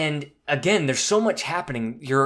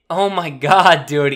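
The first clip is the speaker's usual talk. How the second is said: real excitement; 3 semitones higher, 9 dB louder, slower than usual. Real, not acted. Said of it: "Even talking about it, I get the chills".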